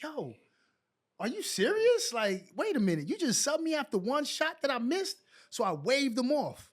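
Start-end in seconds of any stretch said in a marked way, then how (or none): 0.0-5.2 indignant disbelief. Retold or imitated. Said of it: "And I was like".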